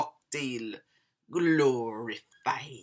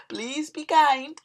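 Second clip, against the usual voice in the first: higher-pitched plea between laughs; laughing plea; 10 semitones higher than usual. Real, not acted. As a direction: plead playfully, on the edge of laughter.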